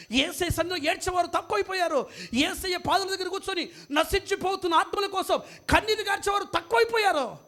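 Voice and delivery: lamenting refrain climbing in pitch; impassioned preaching. Acted. Preacher laments how few now weep for Jesus, impassioned preaching.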